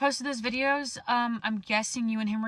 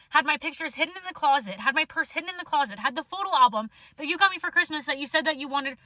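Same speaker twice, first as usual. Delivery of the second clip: heated rant; 3 semitones higher than usual. Real, not acted. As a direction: let it boil over about the cats and the closet. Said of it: "I get really heated about my fucking cats".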